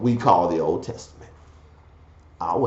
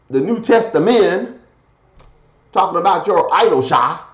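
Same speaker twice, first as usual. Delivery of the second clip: emphatic exhortation; 10 semitones higher, 4 dB louder than usual. Real, not acted. Exhorts listeners at full force.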